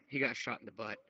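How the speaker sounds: normal talking voice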